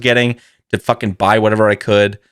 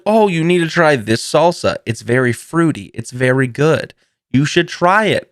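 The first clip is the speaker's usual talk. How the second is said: friend's voice; 5 semitones higher than usual. Retold or imitated. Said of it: "the friend was like".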